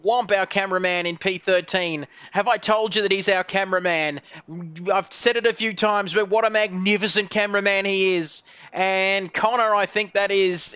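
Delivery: ordinary talk, nothing marked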